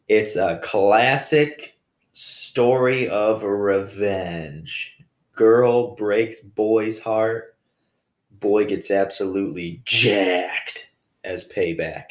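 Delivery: slow, dramatic movie-trailer narration. Pretend. Framing his breakup story for listeners, slow trailer-voice drama. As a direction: announce it like an epic revenge film.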